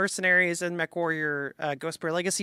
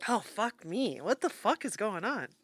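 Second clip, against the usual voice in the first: coughing fit; 9 dB quieter than usual. Real, not acted. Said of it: "I'm dying".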